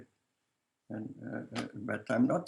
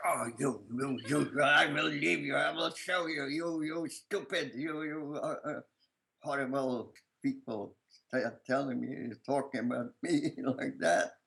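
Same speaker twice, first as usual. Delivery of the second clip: higher pitched indignant outburst at the village women; imitating a defiant retort; 3 semitones higher than usual. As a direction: play the little boy hitting back at the gossipers, indignant. Child retorting to gossiping women.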